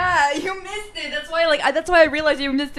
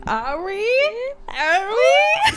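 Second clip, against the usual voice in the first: rising higher and higher into laughter; incredulous high-pitched mimicry of a line; mocking echo; 9 semitones higher, much slower than usual. Echoes film line, rising mockery.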